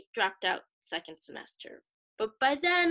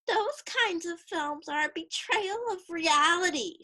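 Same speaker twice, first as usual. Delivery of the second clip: high-pitched, disdainful pronouncement; scornful; 6 semitones higher than usual. Acted. Roommate dismissing anime as unreal, scornfully. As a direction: look down on it with scorn. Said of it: "she would say scornfully".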